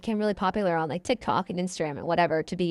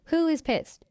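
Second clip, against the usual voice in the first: surprised; 8 semitones higher, slower than usual. Retold or imitated. Confused retold question.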